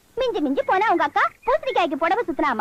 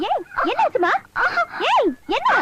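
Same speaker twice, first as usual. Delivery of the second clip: worried calling; 11 semitones higher than usual. Acted. Finds the girl crying.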